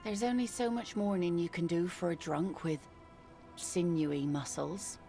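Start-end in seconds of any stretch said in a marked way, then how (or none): 3.6-5.0 slow, fond drawl on sinewy; savoring sinewy. Acted. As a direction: linger on the word like you miss him. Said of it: "It's in the way she pronounces sinewy".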